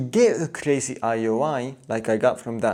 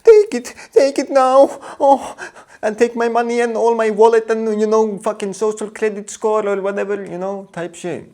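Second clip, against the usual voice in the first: much higher, loud frantic squealing; frantic eager girl; 9 semitones higher, 6 dB louder than usual. Retold or imitated. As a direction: squeal eagerly, begging to give everything. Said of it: "then she's like".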